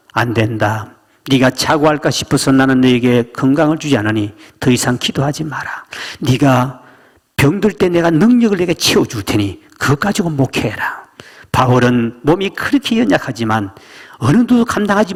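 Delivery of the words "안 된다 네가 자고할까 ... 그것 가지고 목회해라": 낮고 엄하게 타이르는 하나님; 낮게 가라앉혀 단호히 말하는 신의 목소리; 하나님의 음성. Retold or imitated. 하나님의 대답을 연기함. (낮고 단호한 하나님의 음성)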